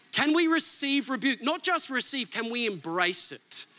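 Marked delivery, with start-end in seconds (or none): none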